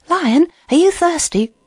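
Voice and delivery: lightly voiced hare calling out. A narrator's reading. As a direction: call a question over to someone. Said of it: "he called out to the lion".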